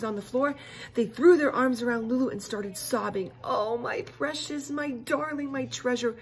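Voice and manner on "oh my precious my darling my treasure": high, slow, wailing endearments; wailing mom. Acted. Weeping mom wailing at her returned daughter. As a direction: wail over her child like a weeping mom. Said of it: "wailed her weeping mom".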